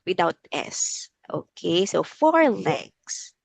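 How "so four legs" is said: slow "four legs" that makes the S audible; stress on legs. Shown as a demonstration. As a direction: lean on the plural "legs" slowly. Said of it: "we will add letter S".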